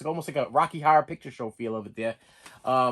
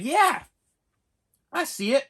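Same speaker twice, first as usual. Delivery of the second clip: mock enthusiasm; 9 semitones higher than usual. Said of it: "So I was like".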